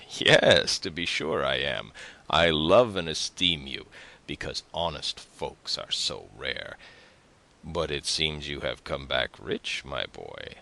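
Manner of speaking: a hint of a familiar, talkative neighbour; swooping, sing-song dialogue for a neighbour; lightly voiced tailor neighbour. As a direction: brush off the young man chummily. Story narrator voices the tailor neighbour.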